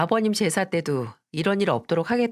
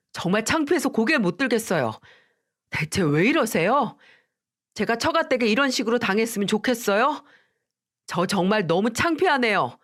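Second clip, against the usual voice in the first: husband shouting at his mother, higher pitch; higher, upset rebuke; loud angry husband; 3 semitones higher than usual. Acted. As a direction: raise his voice at his mother, ashamed. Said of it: "큰 소리를 치면서 말했어요".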